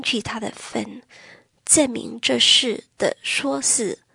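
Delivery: slow, weighty Bible reading; solemn scripture reading. Acted. To the congregation, reading Revelation, slow and solemn. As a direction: read the verses like a solemn warning.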